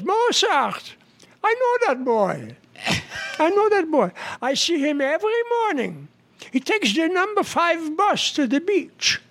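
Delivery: put-on high-pitched Jewish-accented woman. Woman claims to know Mozart at party, high Jewish accent. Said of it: "any other jokes with a Jewish accent".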